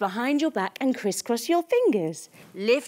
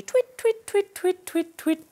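owl hooting; 7 semitones higher than usual. Acted.

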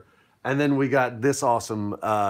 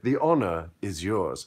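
put-on British accent; 4 semitones lower than usual. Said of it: "'cause she's British".

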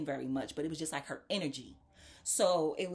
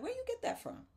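high, eager imitated question; playing the thrilled shopper, pitched well up; mock excited lady. Shopper asking where she got the hat, pitched high and eager.

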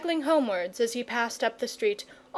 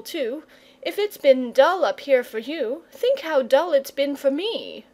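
a lightly voiced boy, earnestly coaxing; pleading boy; 3 semitones higher than usual. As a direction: talk the dragon round.

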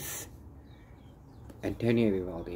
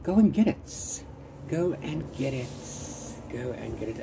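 fading urging; 3 semitones higher than usual. Real, not acted. Booktuber urging viewers to buy, eager then fading. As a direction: start high and eager, fade each repeat. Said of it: "urges viewers to buy the book".

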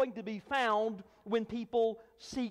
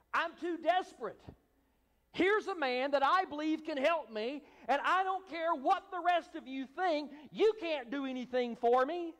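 acted desperate insistence, pitch lifted; 4 semitones higher than usual. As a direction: plead your case as a man past caring. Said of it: "this man was desperate".

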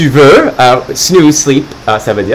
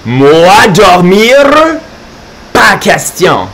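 mock shout; 3 semitones higher, slower than usual. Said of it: "Carlo crie très fort".

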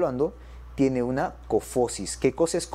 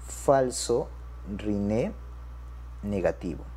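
word by word, with pauses between; dictation pace; 5 semitones lower, 5 dB quieter, slower than usual. Shown as a demonstration. Teacher repeats a new term to doctors, dictation pace. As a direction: spell out the term slowly, falling away at the end.

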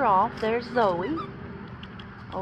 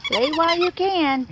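cooing at puppy; 9 semitones higher than usual. Real, not acted.

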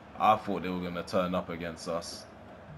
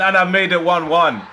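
higher and louder, gleeful; excited; 6 semitones higher, 8 dB louder than usual. Real, not acted. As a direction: still buzzing after the equaliser. Celebrating equaliser.

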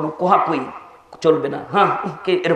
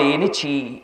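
softer, lower, settled reply; patient answer; 4 semitones lower, 6 dB quieter, much slower than usual. Shown as a demonstration. Son answering the hundredth time, patient and soft. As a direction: demonstrate answering without any temper. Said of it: "বলতে হবে".

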